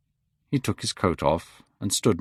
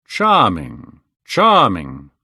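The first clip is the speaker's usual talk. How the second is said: louder, delighted exclamation; delighted cry; 2 semitones lower, 7 dB louder, much slower than usual. A narrator's reading. Lord Henry delighted by the actress, crying out. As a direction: cry out in admiration. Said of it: "cried Lord Henry".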